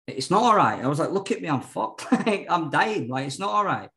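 hammed-up panic, still amused at himself; mock panic. Panicked retelling to funders.

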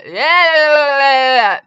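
loud, high burst of yeahs; giddy cheering yeahs; excited yeahs. Real, not acted. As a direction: pump it up.

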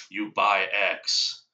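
slow, punchy ad slogan. Retold or imitated. Friend mimics an ad slogan, slow and punchy. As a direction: spell out each word like a pitch. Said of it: "It's just the".

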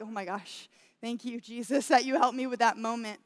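mild, grateful sigh of relief in words; relieved. Retold or imitated. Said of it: "I was more, like, relieved".

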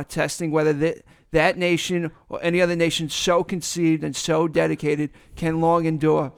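put-on reciting a speech in a Boston accent. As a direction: read it out evenly, dropping Boston r's. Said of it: "with your splendid Boston accent".

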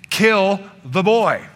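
slow, heavy verdict; elder son's demand. Acted. Elder son condemning his brother, slow and heavy. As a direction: drag out the death sentence. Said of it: "is saying".

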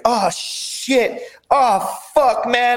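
high, strained mock panic of a beaten fighter; panicked pleading. Beaten opponent panicking in the cage, high strained voice. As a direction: squeak it out like you're losing. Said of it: "he was saying".

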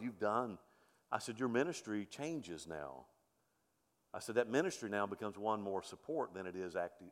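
low, hushed retold reassurance; gentle consoling. Pastor reassuring an elderly man about ministry, gentle consoling.

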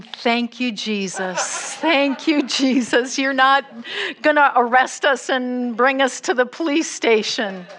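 lighter, laughing with relief; relieved laughing thanks. Retold or imitated. Missionaries thanking Jesus after the scare, relieved laughter. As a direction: laugh out your relief and gratitude.

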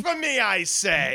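hammed-up, high-pitched indignation; mock outrage. Co-host objecting to the movie pick, mock outrage. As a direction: cry out in pretend horror.

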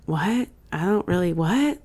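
mildly acted confused kid; soft questioning "what?", lightly imitating a child; quoting a baffled little kid; puzzled child. Acting out daughter's puzzled reply.

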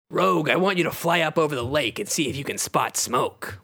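lightly voiced team leader; Wolverine. Wolverine sends Rogue to scout, in character. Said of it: "Wolverine says".

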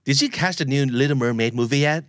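slow, clear lesson read, rising at the end; slow model question. Shown as a demonstration. Teacher reads the last sample question slowly for learners. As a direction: ask "Did you catch the new Little Mermaid movie yet?" slowly. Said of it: "มาถึงสถานการณ์สุดท้ายของวันนี้แล้วครับ".

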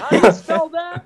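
high, puzzled retelling of his own question; clueless question. Retold or imitated. Retelling how he asked the politician to spell his name, high and puzzled. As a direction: ask it like you have no idea who he is. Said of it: "I'm like".

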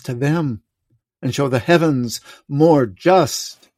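solemn, measured Shakespearean king; classical stage actor. Acted. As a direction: declaim it like a stage Lear. S0 reads King Lear aloud.

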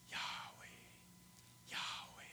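"Yahweh" breathed out as a whisper. Retold or imitated. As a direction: whisper the name "Yahweh" softly. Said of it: "it's a name that comes with a whisper".

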